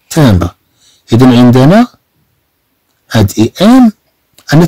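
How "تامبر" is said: low, falling تامبر with A, not I; correct French pronunciation. Shown as a demonstration. Teacher repeats how we read it here, correct French vowel. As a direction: say تامبر with an open nasal A. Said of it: "إذا نقرأ هنا".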